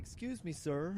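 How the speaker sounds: a hint of a gentle polite bouncer; soft-spoken polite bouncer. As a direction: sweetly ask him to stop. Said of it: "all soft-spoken and polite".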